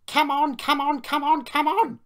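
frantic loud, high chant; straining puff. A narrator's reading. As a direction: urge desperately, phrase after phrase. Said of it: "he puffed".

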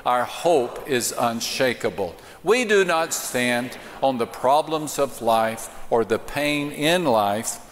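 slow, proclaimed like a creed; steady congregational declaration; declaration with conviction. Shown as a demonstration. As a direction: say it like you mean it. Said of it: "Let's say it like we mean it".

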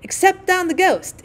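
high, slow gleeful cry; gleeful shriek. A narrator's reading. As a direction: shriek it with mischief. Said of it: "shrieked the twins".

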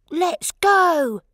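high, loud eager shout. A narrator's reading. Young wolf pup rallying the pack, shouting. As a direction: call it out like a keen young leader. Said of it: "shouted Wilf".

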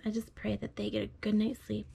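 soft, hushed prayer, drifting into whispers; hushed bedtime prayer. Real, not acted. Father prays over child at bedtime.

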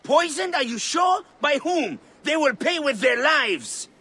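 loud, rising fury at the news; outraged shout. Acted. Guardian of Sobek hearing of the poisoning, shouting in outrage. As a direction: shout it, demanding revenge.

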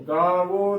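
ਗਾਵੋ as "gaa-vo", ending in long o; wrong two-syllable reading. Shown as a demonstration. Teacher showing the congregation's mistake, ਗਾਵੋ said "gaa-vo". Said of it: "ਦੇ ਨਾਲ ਉਚਾਰਨ ਗਲਤ ਹੈ".

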